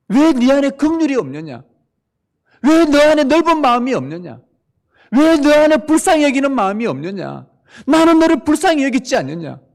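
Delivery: high, loud preaching cry of the Lord; thundering rebuke. Acted. Preacher voices the Lord rebuking the congregation, loud and high. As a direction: call out each question as the Lord.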